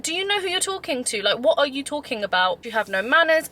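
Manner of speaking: indignant retold telling-off, starting high; mildly acted indignant comeback; not having it. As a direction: retell her standing up for herself, indignantly. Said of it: "she wasn't having it".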